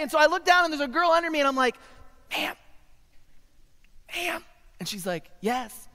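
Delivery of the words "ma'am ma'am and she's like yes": very soft and high; timid hushed voice. Acted. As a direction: timidly call for help without alarming anyone. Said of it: "Sir, I can't hear you".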